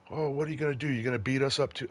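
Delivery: high, sneering challenge; taunting crowd. Retold or imitated. Crowd member taunting the cop who asks them to wait, high and sneering. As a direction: needle the cop like a hostile bystander.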